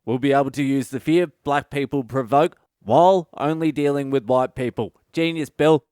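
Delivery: mock boss gushing. Boss gushing over Bill's idea.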